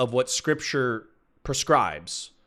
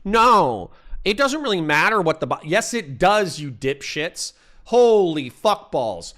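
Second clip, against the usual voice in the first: pissed-off outburst; 2 semitones higher, 3 dB louder than usual. Real, not acted. Streamer losing his temper at chat over fedoras, angry loud outburst. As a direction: snap at the chat, really fed up. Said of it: "I'm getting pissed off".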